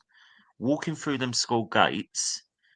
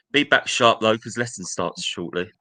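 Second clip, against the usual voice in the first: a louder imitated command; stern order; 5 dB louder than usual. Teacher ordering the late boy back quickly, loud stern command. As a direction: order him to hurry back.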